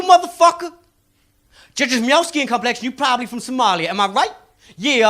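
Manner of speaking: lightly voiced cocky hustler; street mind-reader. Comedian playing the salesman sizing up the Somali student. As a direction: read him like a street psychic. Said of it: "he went".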